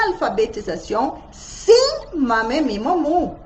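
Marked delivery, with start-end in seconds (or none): none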